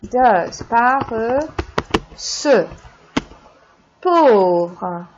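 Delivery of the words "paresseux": Paresseux said slowly and clearly, pa-res-seux; slow model pronunciation. Shown as a demonstration. Teacher modeling Paresseux slowly for students, clear and drawn out. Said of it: "but paresseux does".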